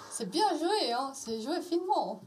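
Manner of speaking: ironique. Acted. Réplique ironique au maître du jeu.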